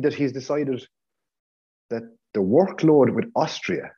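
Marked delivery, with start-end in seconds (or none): 1.9-3.9 Austria leaned on, slowed right down; stress on Austria. Real, not acted. Podcaster mocking Rangnick's Austria excuse, stress on Austria. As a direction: drag out the word Austria to make the point. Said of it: "now I'm stressing the word Austria".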